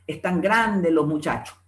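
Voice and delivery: MUCHACHOS without the final S; dropped S. Acted. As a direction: slowly, leave the S off "los muchachos". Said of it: "la pérdida de la S".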